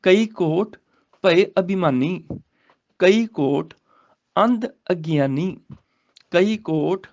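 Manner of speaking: slow, measured verse reading; scripture recitation. Shown as a demonstration. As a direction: recite the sacred verse, drawing out the words.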